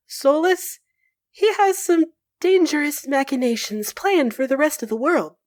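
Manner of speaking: smooth and reassuring envoy, lightly played; Maevaris, lightly voiced.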